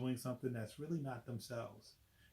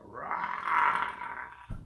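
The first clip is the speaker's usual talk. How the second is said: monster roar; 7 dB louder than usual. Acted. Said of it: "opened his jaws to roar".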